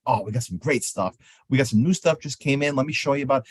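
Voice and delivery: lightly eager, smiling sales voice; enthusiastic salesman. Shown as a demonstration. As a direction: sound glad to show the new stuff. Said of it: "I'm enthusiastic and I'm smiling".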